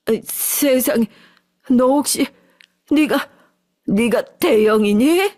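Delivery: slowly realizing it's her son; stunned disbelief. Acted. Mother gasping at her son, stunned and halting. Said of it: "설마 싶어서 찬찬히".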